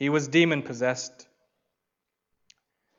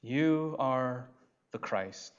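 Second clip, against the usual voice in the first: hushed Peter; 5 dB quieter, much slower than usual. Retold or imitated.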